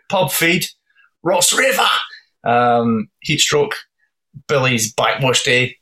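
song titles read in a hammed-up Aussie accent; broad Aussie accent. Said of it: "more, more Aussie".

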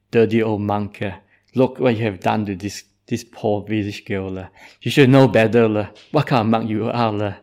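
loud mock scolding, half laughing; scolding villagers. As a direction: berate the monk, breaking into laughs. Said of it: "and they scolded the monk".

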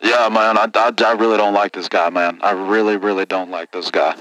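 redneck caller. Acted. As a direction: grumble it like a sore trucker. Caller who hates the other guest.

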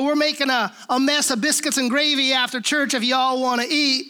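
a mild, twangy mock Southern accent; playful imitation of a Southern accent. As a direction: lay on a friendly Southern twang, lightly. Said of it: "this twangy little thing".

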